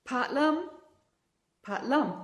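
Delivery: Patlum with an L where rum has an R; rum as lum. Shown as a demonstration. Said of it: "lum would it be how they'd say rum".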